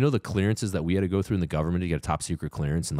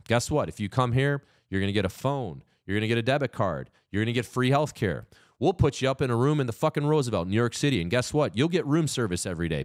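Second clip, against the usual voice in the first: sarcastic mock offer; 7 semitones higher than usual. Mocking the government's offer to migrants, sarcastic pitch. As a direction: sell the freebies like a sneering host.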